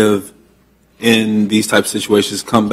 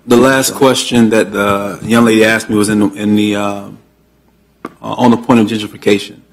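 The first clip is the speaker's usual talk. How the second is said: projecting a little more after being asked; speaking up. Real, not acted. Repeating the resident's question for a listener who couldn't hear, speaking up. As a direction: lift the volume so the room hears. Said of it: "Could you talk a little louder".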